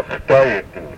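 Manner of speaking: Khtayetu begun with a throaty German ach sound; guttural opening. Shown as a demonstration. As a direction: start Khtayetu with a rasping kh from the throat. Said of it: "It starts with a guttural sound".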